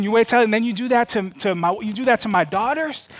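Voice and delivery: retold dad voice scolding his son about his sisters; stern dad voice. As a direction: demand an answer from your boy. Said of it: "I had to use the dad voice".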